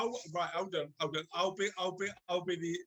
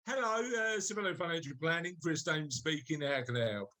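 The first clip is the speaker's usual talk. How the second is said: lightly put-on posh receptionist, dropping low; low-pitched professional greeting, a touch posh; posh phone voice; 3 semitones lower than usual. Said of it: "putting my posh voice on".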